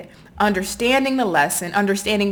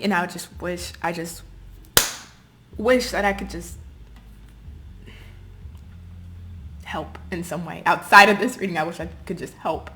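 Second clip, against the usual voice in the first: softer, choked-up wish; real emotion, voice dropping away; emotional; 3 semitones lower, 4 dB quieter than usual. Real, not acted. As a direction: let the feeling pull the voice down, quiet and heavy. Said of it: "this is why I'm just emotional about this".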